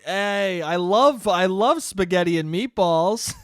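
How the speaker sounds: loud mock enthusiasm; mock gushing. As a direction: call out a silly food declaration. Shouts mockingly at the bartender.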